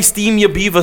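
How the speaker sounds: "Beaver" said as "bee-vah"; odd brand pronunciation. Real, not acted. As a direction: drop the final R in "Beaver", ending on AH. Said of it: "Why do you say it like that?".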